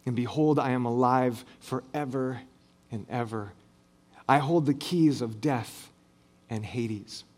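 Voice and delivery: lightly voiced comforting Jesus, low and soft; gentle reassurance. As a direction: reassure someone frightened, low and unhurried. Jesus comforting the fallen John.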